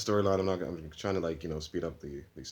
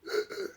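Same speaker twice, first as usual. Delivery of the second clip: sharp gasp. Retold or imitated. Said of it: "who's gasping".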